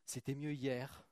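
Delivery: slow mock whine of the good old days; mocking nostalgia. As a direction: sneer at the nostalgic. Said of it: "arrêter d'être des". (imitation moqueuse et lente)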